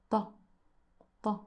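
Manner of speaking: TA with a thick, emphatic T; very heavy ta. Shown as a demonstration. Teacher drilling the letter, very heavy TA. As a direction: put weight on the T of TA. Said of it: "Very heavy T".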